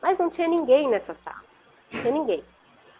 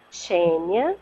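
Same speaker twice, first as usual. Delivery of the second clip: low, gently rising call of a name; soft creamy voice; 5 semitones lower than usual. Retold or imitated. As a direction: imitate a velvety voice calling her gently. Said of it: "assim, suave, cremosa". (imitando uma voz suave e cremosa)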